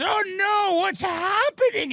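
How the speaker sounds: high, slow panicked gasp of a dying man; hammed-up high dying voice; dying friend. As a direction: play the friend choking on the greens, voice way up. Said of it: "He goes".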